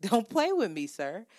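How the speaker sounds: mock-stern warning to back off; emphatic warning.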